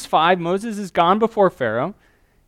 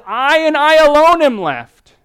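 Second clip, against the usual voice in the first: much higher, louder whiny complaint; complaining; 10 semitones higher, 11 dB louder than usual. Retold or imitated. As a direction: wail it like the hurt prophet. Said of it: "that's Elijah's complaining".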